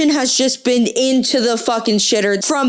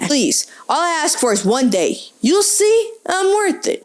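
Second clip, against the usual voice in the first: put-on pleading fuckboy with an Italian accent; Italian-accented wheedling suitor; 4 semitones higher than usual. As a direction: beg in an Italian lilt, rising high at the end. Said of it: "Italian accent for the fuckboy".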